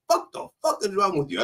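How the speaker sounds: nasty cussing. Retold or imitated. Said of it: "saying things like".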